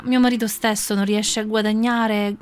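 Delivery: desperate poor woman. Acted. Poor woman pleading her case to the sage. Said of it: "disse la povera donna".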